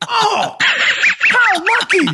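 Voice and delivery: drawn-out high sarcastic gasp of luck; sarcastic mock amazement. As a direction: stretch it slow and high, dripping sarcasm. Sarcastic aside on FBI luck.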